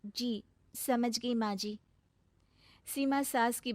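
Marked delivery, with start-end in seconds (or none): 0.1-1.8 subdued obedience. Acted. Daughter-in-law submits sadly.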